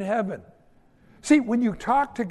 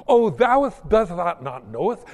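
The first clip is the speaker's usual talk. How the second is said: mock pompous prayer; 4 dB louder than usual. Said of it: "use words that you don't really even understand".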